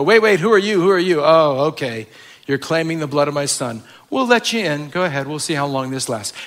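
hammed-up doubtful welcome at the gate; suspicious gatekeeper. Preacher voices heaven's doorkeeper, grudging and suspicious. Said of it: "they go".

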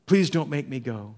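earnest plea, a touch of anguish; pleading. Retold or imitated. Jesus in Gethsemane pleads with the Father, earnest anguish. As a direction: beg the Father to be spared. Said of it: "he's crying out in the Garden".

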